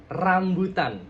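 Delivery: RAMBUTAN with a firm tongue-tip trill on R; rolled R. Shown as a demonstration. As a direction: press the tongue to the gum and roll RAMBUTAN. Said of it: "ada tekanan di bagian gusi yang atas".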